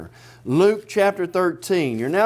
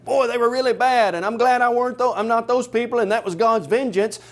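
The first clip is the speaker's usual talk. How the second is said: higher, lightly mocking smug tone; smug self-righteous quote; 6 semitones higher than usual. Preacher mimics smug onlookers judging the Galileans, mildly mocking. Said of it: "people looking at others and saying".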